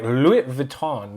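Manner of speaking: "Louis Vuitton" slowly as loo-ee vee-TAHN; French-style pronunciation. Shown as a demonstration. YouTuber demonstrating the brand name to viewers, French-style pronunciation. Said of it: "They call it, like".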